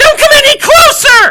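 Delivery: very high, very loud, shrill shrieking scream. Voicing an unseen figure who yells at the approaching party: loud shrill scream. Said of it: "a loud, shrill voice scream out".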